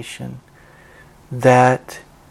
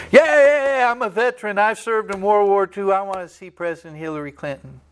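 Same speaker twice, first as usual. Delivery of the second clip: a hint of an eager old veteran, pitched up; 5 semitones higher than usual. Veteran at the White House gate, lightly voiced eager old man. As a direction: lightly voice a keen old soldier.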